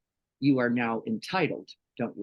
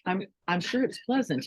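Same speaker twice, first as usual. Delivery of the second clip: high, fast sarcastic guy voice; imitating a teasing stretch guy, higher and faster; mock stretch guy; 10 semitones higher than usual. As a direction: toss off a sarcastic reply in a high voice. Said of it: "He goes".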